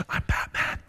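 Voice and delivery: whispered Batman growl. Retold or imitated. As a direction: rasp it low like Batman. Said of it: "I said".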